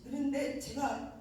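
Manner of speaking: ordinary talk, nothing marked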